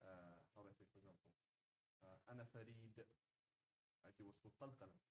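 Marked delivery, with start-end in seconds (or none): 2.3-2.9 أنا فريد with a bounced final d; careful formal Arabic, echoing the last consonant of فريد; proper Arabic. Shown as a demonstration. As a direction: qalqala on the end of فريد. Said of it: "I'm speaking proper Arabic".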